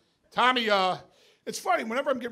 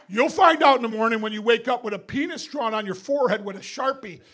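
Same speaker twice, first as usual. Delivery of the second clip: taunting yell; 2 semitones higher, 7 dB louder than usual. Retold or imitated. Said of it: "We're yelling through a wall".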